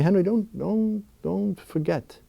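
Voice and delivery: soft, tender, fading to quiet; God's tender voice. Acted. God speaking to him amid inner chaos, tender and soft. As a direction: reassure softly, with halting repeats. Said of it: "where God is saying to me".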